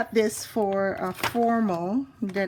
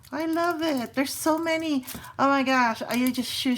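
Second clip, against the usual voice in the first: excited gushing; 5 semitones higher than usual. Real, not acted. Gushing over sticker haul.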